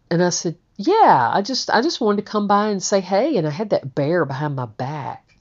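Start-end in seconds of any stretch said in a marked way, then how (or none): 0.8-3.4 higher-pitched, quick casual explanation; acting out an offhand doorstep excuse; retold casual excuse.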